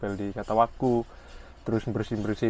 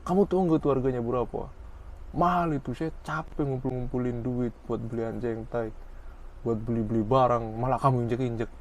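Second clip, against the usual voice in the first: mock scolding. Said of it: "Ngomel-ngomel, marahin saya".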